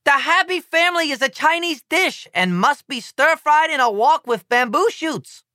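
put-on lecturing in a mild Chinese accent; lightly voiced Chinese ambassador. A narrator's reading. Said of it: "proclaims the Chinese ambassador".

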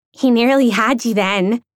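a friend voicing her worry; worried. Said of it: "creased with worry".

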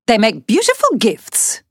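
diplomatic. Acted. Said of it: "said Trish diplomatically".

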